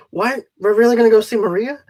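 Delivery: quick, rising disbelief; a fast, eager double-take; surprised question. Retold or imitated. Friend hearing they'll go see Maria, surprised and quick.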